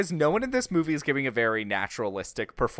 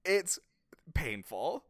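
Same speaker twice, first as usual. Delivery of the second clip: whispering; 4 semitones higher, 5 dB quieter, slower than usual. Real, not acted. Dreading the outfits, whispered.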